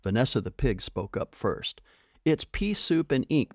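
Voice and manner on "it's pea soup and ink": higher, mild wail; a touch of a wail, pleading. A narrator's reading. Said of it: "she wailed".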